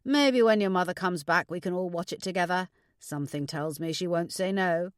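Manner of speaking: lightly voiced dad, projected and reassuring; a hint of an easygoing dad; father. Father figure speaking in story.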